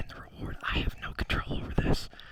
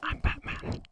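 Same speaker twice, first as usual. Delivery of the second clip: hushed gravel-free Batman line, tried on request; Batman whisper; 7 dB quieter, slower than usual. Pretend. Streamer's guest trying the Batman line, whispered. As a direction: whisper I'm Batman like the caped hero. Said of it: "say it in a deep voice first".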